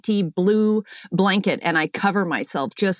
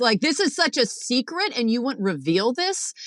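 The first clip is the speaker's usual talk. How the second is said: retold indignation; 2 semitones higher than usual. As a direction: act out confronting the sister, lightly indignant. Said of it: "I'm pissed off about this".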